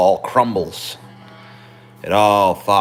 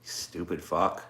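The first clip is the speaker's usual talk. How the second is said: lightly voiced Joe Biden telling someone off; Biden impression. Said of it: "the speaker's Biden impression".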